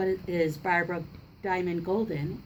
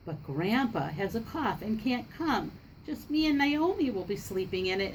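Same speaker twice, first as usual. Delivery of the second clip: put-on lively read-aloud for children; story narration. A narrator's reading. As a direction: read the picture book to the class, with voices. Reads picture book to class.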